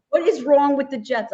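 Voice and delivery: imitating exasperated dad. Daughter quotes dad's call about the team, imitating exasperation. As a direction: demand it like a fed-up father. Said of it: "he goes".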